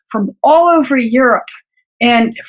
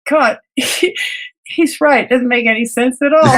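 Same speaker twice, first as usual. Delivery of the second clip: laughing realization. Retold or imitated. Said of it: "I burst out laughing".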